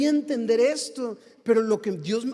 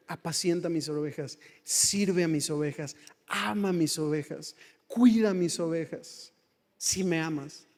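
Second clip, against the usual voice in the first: gentle Jesus voice; 5 semitones lower than usual. Retold or imitated. Voicing Jesus to Peter.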